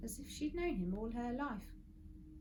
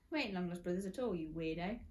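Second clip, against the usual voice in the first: fast, dismissive scoff. Acted. Mister Gum brushing off Friday, fast and scoffing. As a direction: brush him off quickly.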